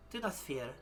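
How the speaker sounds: put-on understated madame in a German accent; lightly put-on German accent. Madame reassures her visitor, light German accent. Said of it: "gonna freaking go back into German again".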